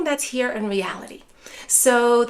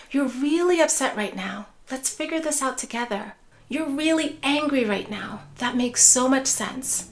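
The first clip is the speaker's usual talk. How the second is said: validating caregiver voice. Shown as a demonstration. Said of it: "a way to echo the emotion".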